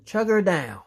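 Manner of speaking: urgent warning cry; alarmed shout. A narrator's reading. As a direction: warn of a crash. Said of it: "shouted Wilson".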